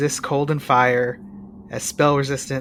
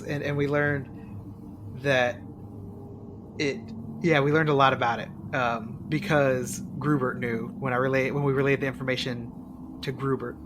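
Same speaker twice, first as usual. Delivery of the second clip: barely audible, away from the microphone; speaking too far from the mic; faint, far from mic; 5 dB quieter than usual. Real, not acted. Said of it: "You sound really faint".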